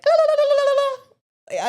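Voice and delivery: high, loud ululating la-la-la; mock crowd ululation; imitated zaghrouta yell. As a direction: trill it out like a festive ululation. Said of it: "like, yell".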